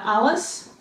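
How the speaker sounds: "Alice" said slowly with a rising end; syllables split. Shown as a demonstration. Teacher modelling a name for students. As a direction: lay out "Alice" in two beats.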